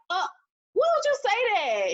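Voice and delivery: high, pained incredulous question; retelling a brother's teasing, stung; hurt disbelief. Retold or imitated. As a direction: ask it like you can't believe he said it. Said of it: "I was like".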